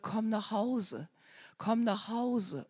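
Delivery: slow, soft beckoning call; luring voice. Retold or imitated. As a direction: draw her in slowly, like a tempting whisper from afar. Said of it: "die Stimme gehört".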